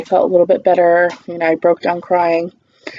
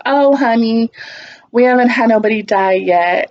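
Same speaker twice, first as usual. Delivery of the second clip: nurse soothing; 4 semitones higher than usual. Retold or imitated. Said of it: "She's like".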